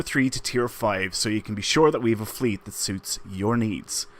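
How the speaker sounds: upbeat scripted ad read; promo read. Acted. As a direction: sell it like a promo.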